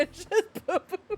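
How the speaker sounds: imitated thumping. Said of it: "every time you hit the desk".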